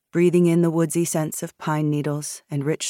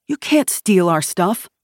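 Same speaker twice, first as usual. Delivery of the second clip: slow, raised objection; indignant protest; 4 semitones higher, 5 dB louder than usual. A narrator's reading. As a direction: protest against being robbed. Man protests seizure of weapons.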